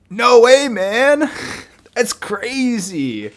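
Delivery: very high, loud monkey yelp; Diddy Kong voice. Acted. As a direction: screech it like a hyper cartoon monkey. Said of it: "This is my Diddy Kong voice".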